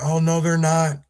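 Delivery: imitating a disbelieving reaction, pitched high; mock shock. Host voicing people shocked by the sanctuary state news, mock shock. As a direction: raise pitch and volume in put-on disbelief. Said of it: "I don't want people to get shocked".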